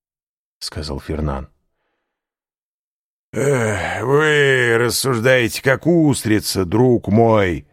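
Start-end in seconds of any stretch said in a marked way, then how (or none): 3.3-7.7 high, loud tipsy scoffing; drunken interruption. A narrator's reading. Caderousse cuts in mocking Fernand, tipsy and loud. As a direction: wave him off like a drunk. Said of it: "прервал его Кадрус".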